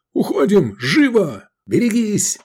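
high, loud barked orders; commanding bark. A narrator's reading. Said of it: "рявкнул командирским голосом".

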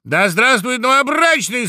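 high, ringing cheer for the groom; loud shout. A narrator's reading. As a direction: hail him at full voice. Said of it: "закричал дятел громко".

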